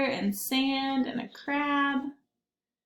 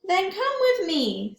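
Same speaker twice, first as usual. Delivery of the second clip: higher friendly invitation; crab voice; 8 semitones higher than usual. Acted. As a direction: beckon with a sing-song lift. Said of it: "said Crab".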